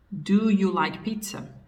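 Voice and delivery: slow, measured English question; slow example sentence. Shown as a demonstration. Teacher repeating the English example for students, slowly. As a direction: say it slowly for learners. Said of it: "a gente inverte a ordem".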